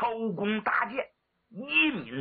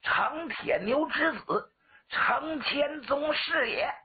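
formal self-introduction; 7 semitones higher than usual. Acted. General announces his lineage and name, grand and high.

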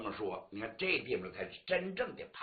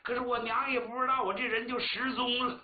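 a choked, pleading plea that rises in spots; pleading woodcutter; 3 semitones higher than usual. Acted. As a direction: beg the magistrate, near tears. Woodcutter pleads about his mother. (带哭腔的哀求)

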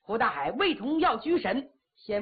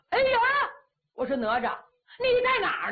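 frantic cry; 10 semitones higher, faster than usual. Acted. Hu Dahai panicking because his son won't appear, high frantic cry. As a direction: yelp out in a flurry. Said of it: "可急坏了".

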